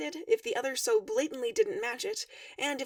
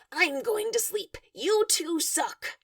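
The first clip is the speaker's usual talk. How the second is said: insisting; 5 semitones higher, slower than usual. A narrator's reading. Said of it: "Karkat insists".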